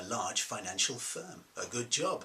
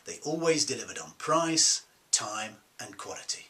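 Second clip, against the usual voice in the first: insistent defence; 4 dB louder than usual. Retold or imitated. Defendant repeating his answer to the hearing, insistent. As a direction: stress the stock defence, easing off on the last words.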